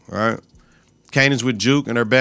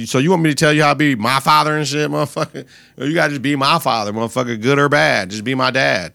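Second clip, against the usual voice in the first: exasperated daughter; 3 semitones higher than usual. Retold or imitated. Juke telling her father to just be a dad, exasperated. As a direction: snap back at a clueless dad.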